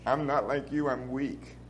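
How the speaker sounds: quiet, humble sincerity; softly sincere brother, truly humble. Retold or imitated. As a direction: say it meekly, meaning every word. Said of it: "he said with sincerity".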